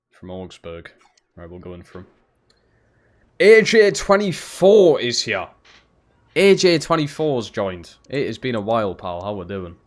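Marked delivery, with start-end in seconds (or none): 3.4-8.0 high, slow announcer call. Acted. Welcoming a viewer in a high, slow announcer voice. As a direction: boom it out like a ring announcer. Greeting a new chat member.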